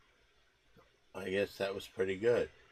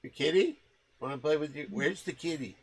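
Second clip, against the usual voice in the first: talking to a dog; 7 semitones higher, 4 dB louder than usual. Real, not acted.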